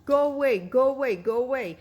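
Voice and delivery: loud high cry that fades off; mock scream, fading. Wife too upset to talk, screaming at her husband to leave, fading. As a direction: yell it, then run out of breath. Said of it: "trying to scream and tell him".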